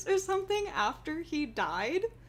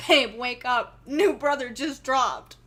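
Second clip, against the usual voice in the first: mock meme announcement; 7 dB louder than usual. Meme voice, waking partner.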